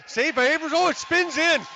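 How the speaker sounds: excited live call. Real, not acted. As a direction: sell the save, then the surprise goal. Save then goal, live call.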